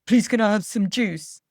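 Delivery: put-on child's voice asking nicely; a child trying the polite version. Child retrying the juice request, politely in a child's voice. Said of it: "They might say".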